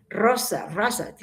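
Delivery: put-on "rosa" with a deliberate rolled r, like small children practising; practised R. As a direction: work at the r of "rosa". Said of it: "Los niños cuando comienzan a hablar".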